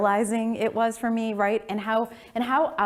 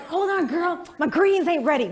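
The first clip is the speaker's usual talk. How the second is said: mom impression; 11 semitones higher, 6 dB louder than usual. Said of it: "my mom's like".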